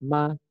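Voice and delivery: "Ma" short and level, without tone; toneless. Shown as a demonstration. Teacher explains it has no tone, short toneless "Ma". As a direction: say a quick, neutral-tone "Ma". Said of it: "dia nggak ada nadanya".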